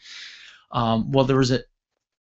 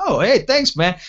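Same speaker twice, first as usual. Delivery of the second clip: much higher-pitched, eager thanks; delighted thanks; 7 semitones higher, 3 dB louder than usual. Retold or imitated. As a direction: play up cheerful gratitude. Grateful reply to helpful cop.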